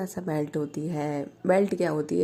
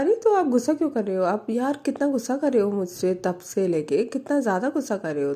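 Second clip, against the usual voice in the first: high and fast, exasperated; retold exasperated complaint; 5 semitones higher, faster than usual. Prachi asking Baani why she is angry, high fast exasperation. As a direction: fire off why-are-you-so-angry in rising exasperation.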